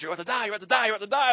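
repeated frantic warning; mom's voice echoing. Retold or imitated. Mother's warning echoing under the water, frantic. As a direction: chant the doom like a voice in his head. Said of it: "I hear my mom's voice".

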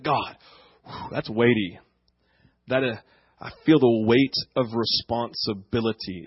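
a disciple calmly feels the weight of the call; sober acceptance. Retold or imitated. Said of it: "It was like".

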